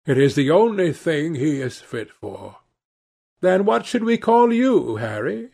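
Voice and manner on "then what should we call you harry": lightly voiced Duchess, pitched up; Duchess asking. A narrator's reading. Duchess asking Harry his name, lightly voiced higher question. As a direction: raise the pitch for a questioning society lady. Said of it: "she asked".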